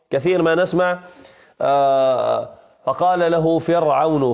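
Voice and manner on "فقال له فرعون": darkened r in "فرعون", as in the common mistake; velarized ر in "فرعون"; heavy ra. Shown as a demonstration. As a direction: quote with "فرعون" wrongly said fer-awn, thick ر. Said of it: "وهذا من الخطأ".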